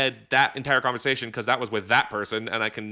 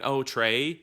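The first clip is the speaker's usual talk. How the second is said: wrong intonation. Shown as a demonstration. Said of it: "not quite the intonation".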